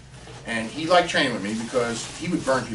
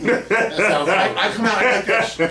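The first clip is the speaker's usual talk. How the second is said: laughing; 10 semitones higher, 8 dB louder, slower than usual. Retold or imitated. Acting out his reaction.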